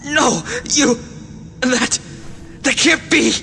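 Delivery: halting, panicked denial; falter, then cry out in disbelief; stammering disbelief. Acted. Cornered man cannot believe it.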